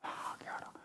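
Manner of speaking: soft whispered answer; hushed go forward. Shown as a demonstration. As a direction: breathe out the command.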